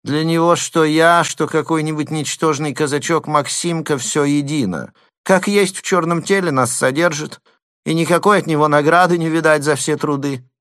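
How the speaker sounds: high whining lisp; lisping complaint. A narrator's reading. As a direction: whine about the master. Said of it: "своим шепелявым голосом".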